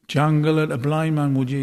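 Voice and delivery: snarled. A narrator's reading. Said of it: "he snarled".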